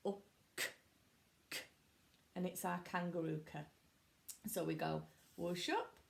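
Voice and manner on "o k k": robot voice. Shown as a demonstration. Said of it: "robot arms".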